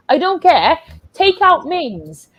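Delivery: high-pitched, fed-up order; exasperated demand. Real, not acted. Fan demanding players come off, exasperated demand. Demands substitution after a foul.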